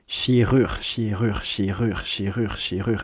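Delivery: "Chirure" chanted as shee-rur, over and over; two syllables combined. Shown as a demonstration. Teacher drilling a word in parts, two joined syllables "Chirure". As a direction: drill "Chirure" evenly in a steady loop. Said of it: "combine just two".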